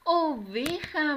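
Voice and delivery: "Oveja" drawn out, high and loud; joined-up, triumphant "Oveja"; cheering the answer. Shown as a demonstration. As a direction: celebrate the right answer with the children.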